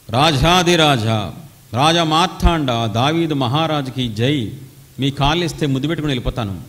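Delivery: butter up the king sarcastically; mocking a prophet who only flatters; mock flattery. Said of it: "అన్నాడా?".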